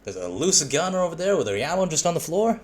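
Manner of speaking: Southern accent impression; Southern accent with swooping pitch. Shown as a demonstration. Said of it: "how Southern would".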